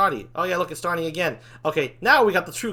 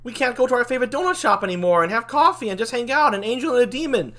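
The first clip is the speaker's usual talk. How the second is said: higher-pitched, swooping lament; dramatic lament; 4 semitones higher than usual. Acted. Angel and demon facing the end of donut shop hangouts, dramatic lament. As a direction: wail it like a farewell.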